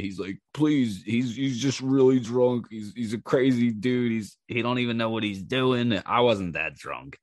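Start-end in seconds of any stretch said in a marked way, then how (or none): 0.5-6.0 higher, mildly urgent pleading; imitated pleading friend. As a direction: talk someone down on a drunk friend's behalf. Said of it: "my friend is trying to talk this dude into not killing me".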